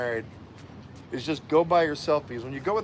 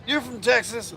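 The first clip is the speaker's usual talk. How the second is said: retold question; 8 semitones higher, slower than usual. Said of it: "he goes".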